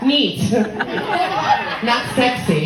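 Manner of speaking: neat dropped flat as a dry verdict; deadpan. Real, not acted. Comic closing the napkin story, deadpan. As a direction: say neat with a falling, unimpressed tone. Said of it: "punchline echo".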